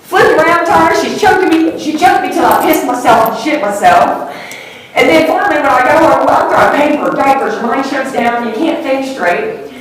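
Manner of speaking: high, loud, real distress; distraught account. Real, not acted. Witness telling how she was choked, distraught.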